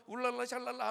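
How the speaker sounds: mock speaking in tongues. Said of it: "막 방언도 하고".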